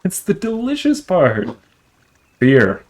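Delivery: villain voice. Acted.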